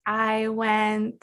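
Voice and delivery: stretched, unfinished answer; struggling student. Pretend. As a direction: hang on the words, still thinking.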